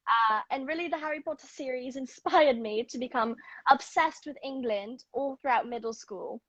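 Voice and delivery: put-on London accent; imitation British English accent. Shown as a demonstration. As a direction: speak like a Londoner with a touch of Hermione. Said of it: "I'm really good at doing one".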